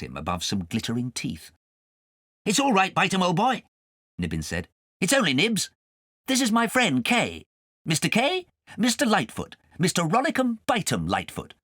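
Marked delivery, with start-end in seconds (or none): 2.5-11.5 high, light cat voice; cat's voice. A narrator's reading. Nibbins telling Kay where to land, high and light. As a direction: speak as a friendly cat.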